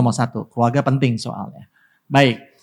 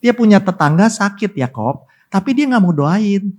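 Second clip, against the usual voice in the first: usual speaking voice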